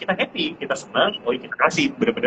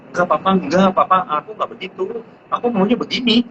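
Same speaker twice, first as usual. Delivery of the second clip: put-on higher childlike voice, pleading with papa; lightly voiced little kid making excuses; child's protest, a bit higher; 6 semitones higher than usual. Child arguing back with father.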